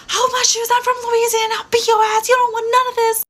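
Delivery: high, loud mock screaming. Angry girl screaming threats across the room, hammed-up. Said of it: "she's screaming".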